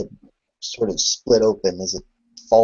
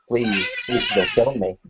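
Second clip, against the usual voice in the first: begging for her life through tears; plead, half crying, don't kill me; tearful pleading. Retold or imitated. Terrified woman begs for life.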